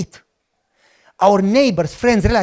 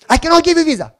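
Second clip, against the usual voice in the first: mock consul; 9 semitones higher, 4 dB louder, faster than usual. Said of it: "I said".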